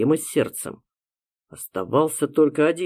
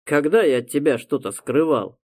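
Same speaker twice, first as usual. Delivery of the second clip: offended; 2 semitones higher than usual. Acted. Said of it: "обиделся друг".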